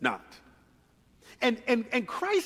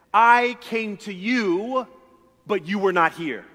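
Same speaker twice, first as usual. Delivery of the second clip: pleading father; 2 semitones higher, 5 dB louder, slower than usual. Acted.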